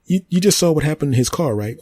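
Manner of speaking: a living tree explaining itself to the human, high and smug; talking tree. Acted. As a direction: play the tree, smug and amused. Tree character.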